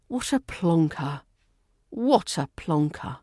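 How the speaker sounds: lightly dramatic exasperation with a sigh; a hint of an exasperated sitcom character; Del Boy. Shown as a demonstration. Teacher imitating a sitcom catchphrase, mildly exasperated. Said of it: "Say it like Del Boy, dramatic, exasperated".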